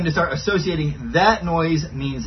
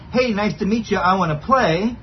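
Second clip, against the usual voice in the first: friendly dog voice; 5 semitones higher than usual. Pretend. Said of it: "one inflection might say".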